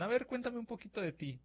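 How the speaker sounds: quoted interviewer. Retold or imitated. Interviewer asks about you.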